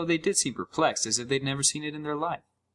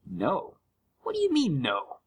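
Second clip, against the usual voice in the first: baffled; 5 semitones higher than usual. A narrator's reading. Narrator baffled by game.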